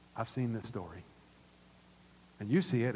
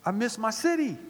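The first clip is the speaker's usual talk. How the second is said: mock choked up; 6 semitones higher than usual. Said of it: "it got me all choked up".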